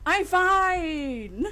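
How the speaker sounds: high, loud, strained protest; screeching. Acted. Nervous rookie insisting to sir he is loose and fine, screeching. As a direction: screech it out, stretching the last word. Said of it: "That screeching noise, is that your".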